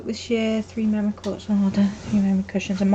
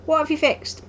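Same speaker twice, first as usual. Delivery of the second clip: surprised; 8 semitones higher than usual. Retold or imitated. Crafter retelling her reply to her friend's message, surprised. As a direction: pitch way up in baffled surprise. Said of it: "And I'm like".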